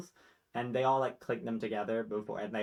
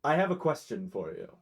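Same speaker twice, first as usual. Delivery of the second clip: noble dog voice; 4 semitones higher, 4 dB louder than usual. Acted. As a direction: ask like a curious dog. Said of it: "the first one who says".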